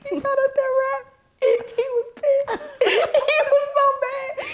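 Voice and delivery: high, slow words squeezed through laughter; laughing hard. Real, not acted. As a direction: talk through helpless giggles. Laughing retelling.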